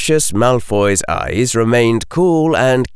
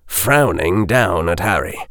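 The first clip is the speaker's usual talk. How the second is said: ordinary delivery, nothing marked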